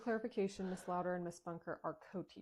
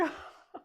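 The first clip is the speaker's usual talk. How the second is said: short laugh. Acted. Teasing friend laughs.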